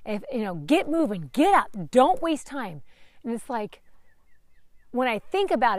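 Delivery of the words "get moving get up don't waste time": berating inner voice. Retold or imitated. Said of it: "voice that just berates me".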